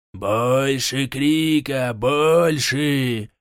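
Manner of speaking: slow, menacing demand; growling forest king. Acted. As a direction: growl it like a cruel tree king. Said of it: "рычал король".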